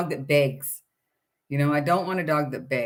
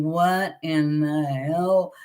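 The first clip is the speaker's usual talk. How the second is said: slow dismayed thought; much slower than usual. Retold or imitated. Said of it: "and I'm thinking".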